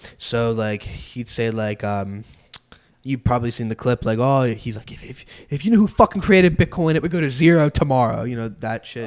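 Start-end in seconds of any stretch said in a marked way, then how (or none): 4.9-8.2 loud, mock hollering, ranting yell. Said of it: "he, like, yells".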